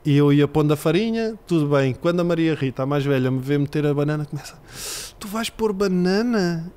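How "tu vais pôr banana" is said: put-on high, slow child's worried question; little girl doubting. Daughter questioning dad's cake, high childlike doubt. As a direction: ask it like a suspicious small daughter.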